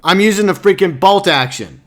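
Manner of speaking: fed-up gamer rant; exasperated explaining. Real, not acted. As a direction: explain the blunder in frustration. Exasperated explanation of his mistake.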